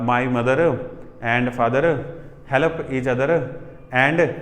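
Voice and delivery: Haryana-Punjabi English accent; demonstrating Haryana-Punjabi accented English with pauses; mother tongue influence. Shown as a demonstration. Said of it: "यहाँ पे mother tongue आ रहा है बहुत ज़्यादा".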